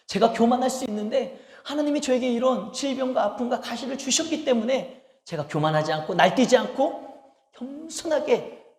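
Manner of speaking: a hint of a tender prayer; grateful prayer. Paul's grateful prayer voiced.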